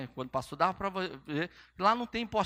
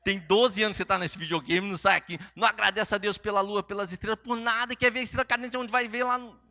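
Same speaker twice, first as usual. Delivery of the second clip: loud, exasperated dad building higher; hammed-up fatherly rant; mock parental scolding; 3 semitones higher, 5 dB louder than usual. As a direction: pile up the complaints at the child. Father scolds son in story.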